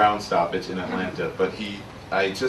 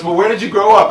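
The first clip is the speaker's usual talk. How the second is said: mild imitating Karen; 10 semitones higher, 10 dB louder than usual. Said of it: "She goes".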